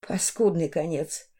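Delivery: quietly pleased with justice done; satisfied. A narrator's reading. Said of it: "удовлетворённо сказала она".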